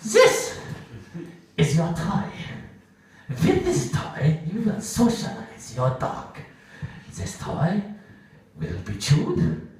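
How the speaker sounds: lightly voiced stern German drill instructor; a hint of a strict commandant giving orders, slow; stern trainer. Dog trainer barking rules at the group, lightly stern and slow. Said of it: "Jerry's wife, or as she's otherwise known, Goebbels".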